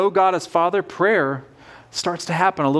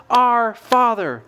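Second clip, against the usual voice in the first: slow reverent; 3 semitones higher, much slower than usual. Acted. Quoting the prayer's opening.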